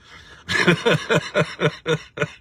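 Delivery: high, loud burst of laughter; gleeful laugh. Real, not acted. Host cracking up at the Liberals' turnaround, loud laugh.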